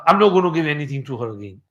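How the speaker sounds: fast, lightly irritated vow; a touch of retold anger, quick; mild retold anger. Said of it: "he got angry".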